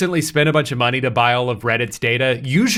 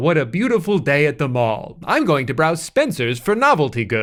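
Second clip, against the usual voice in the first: put-on robotic talking-mannequin voice. Imagining talking mall mannequins repeating catchphrases, in a robotic mannequin voice. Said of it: "repeating robotic catchphrases like".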